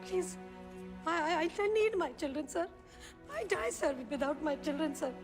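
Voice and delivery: broken, begging the judge in halting English; desperate pleading. Acted. Mother begging the judge to return her children, desperate. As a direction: plead for your children as if your life depends on it.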